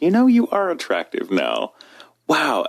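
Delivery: lifted, admiring realization; sudden mock attraction. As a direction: act out a sudden change of mind. Acts sudden attraction on hearing voice.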